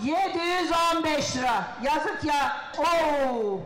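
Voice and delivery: hoarse, worn-out shout. Real, not acted. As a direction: shout through a voice that's going. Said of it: "Ay sesim gitti".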